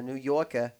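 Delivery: lightly attempted New York accent; New York accent, not fully committed. Shown as a demonstration. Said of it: "trying to do my best New York accent".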